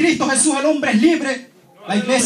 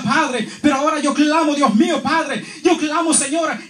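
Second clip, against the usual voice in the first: rising, pleading cry up to a shout; clamor to the Father, building in urgency; crying out to God; 4 semitones higher than usual. Retold or imitated. The preacher retells crying out to God as he falls, pleading and rising.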